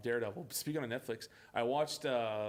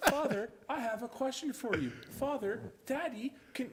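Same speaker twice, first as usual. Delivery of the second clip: mock-stilted higher voice; stilted dialogue; 5 semitones higher than usual. Mocking how the daughters address Dad, stilted. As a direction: imitate a stiffly formal child addressing a parent. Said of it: "No normal person will go".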